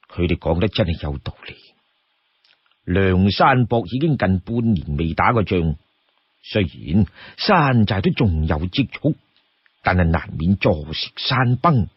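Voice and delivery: lightly voiced chief weighing then assigning tasks; deliberate, composed and rather low; Song Jiang. Voices Song Jiang pondering, giving orders.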